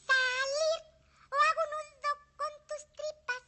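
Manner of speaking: loud, high, angry threat. Acted. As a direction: threaten it loudly. Threatening the cow.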